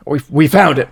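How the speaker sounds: lightly mimicked president, repeating the first word; a hint of an ageing statesman's halting announcement; Joe Biden. Comic redoing the president's announcement, lightly imitated. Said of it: "This is my Biden impression".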